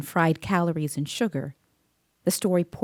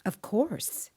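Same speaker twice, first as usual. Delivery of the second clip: whisper; 5 semitones higher, 6 dB quieter than usual. Acted. Reassuring a scared kid.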